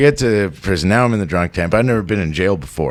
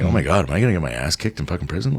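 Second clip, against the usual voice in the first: panicked rush; 3 semitones lower, 4 dB quieter, much faster than usual. Retold or imitated. Panicking inner voice.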